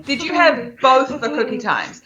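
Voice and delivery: "both" leaned on as the problem word; deliberate question with emphasis on "both"; stress on both. Shown as a demonstration. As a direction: spell out the question, weighting "both". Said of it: "can I examine the sentence".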